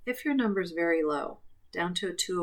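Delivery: ordinary delivery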